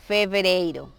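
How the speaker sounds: FEVEREIRO with a careful v; clear Portuguese V. Shown as a demonstration. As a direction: model "fevereiro" for learners, v distinct. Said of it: "siempre tratar de pronunciar bien la B".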